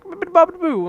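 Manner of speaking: mock booing. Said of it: "I'm like".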